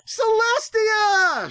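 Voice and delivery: very high, slow, stretched cry; filly spotting her rescuer; hopeful cry. A narrator's reading. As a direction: cry the name out in hope. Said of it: "she cried out".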